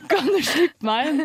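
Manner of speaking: high, loud and slow through the glass; locked-out mother shouting to her daughter. Retold or imitated. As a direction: call out through a window, stretched and loud.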